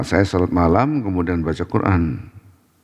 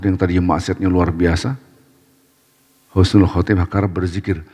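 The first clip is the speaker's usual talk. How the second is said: ordinary delivery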